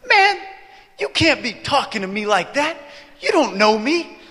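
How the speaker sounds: lightly voiced offended stranger, starting high; mock indignation, opening on a high burst; affronted stranger. Retelling stranger's confrontational reply.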